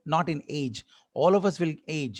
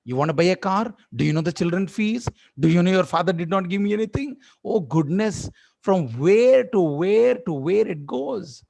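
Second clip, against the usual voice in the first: scolding wife; 2 semitones higher, 4 dB louder than usual. Retold or imitated. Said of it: "It's octopus box".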